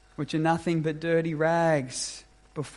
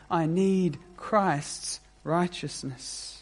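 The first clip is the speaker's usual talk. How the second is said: slow, pleading prayer of a humble sinner; lightly voiced, as if praying for help; humble confession. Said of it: "Humility which simply says".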